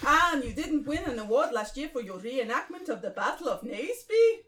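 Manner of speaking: attempted Spanish accent, rising question; Gary. Group leader questions newcomer about an award, Spanish accent. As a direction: ask it in a loose Spanish accent. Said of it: "Gary Spanish".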